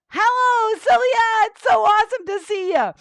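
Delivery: high, quick puppet voice; excited puppet character. Pretend. Penny greets host Sylvia on arrival, excited puppet voice. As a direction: pipe up as an excited puppet guest.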